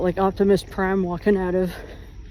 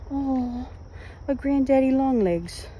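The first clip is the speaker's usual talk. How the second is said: higher, drawn-out oh of discovery; distracted surprise; 6 semitones higher than usual. Real, not acted. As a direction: catch sight of a spider mid-story, voice lifting. Spots a spider while talking.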